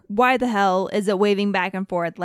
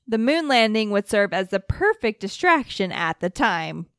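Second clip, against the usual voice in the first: radio broadcaster voice. Acted. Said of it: "your nineteen sixties radio broadcaster voice".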